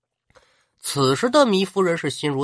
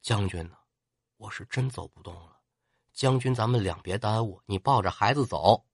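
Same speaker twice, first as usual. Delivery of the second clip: softer, low, understated weeping; a mild sob in the voice, begging; wounded lady tells the general to leave her; tearful plea; 6 semitones lower, 6 dB quieter than usual. Acted. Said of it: "糜夫人哭了".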